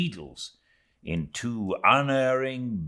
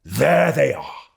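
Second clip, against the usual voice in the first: urgent shout, higher and louder; frantic cry; 5 semitones higher, 6 dB louder than usual. Acted. Harpooner shouting to the crew that whales are sighted, frantic. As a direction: yell the crew into the boats. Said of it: "crying out in a quick frenzy of hurry".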